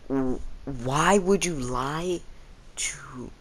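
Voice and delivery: slow, hushed whisper of disbelief. Retold or imitated. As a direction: whisper it slowly, stunned. Class confronts teacher about lying.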